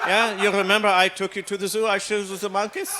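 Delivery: put-on a father teasing his young son; dad's voice. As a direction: play the dad reminding his boy. Dad voiced talking to son.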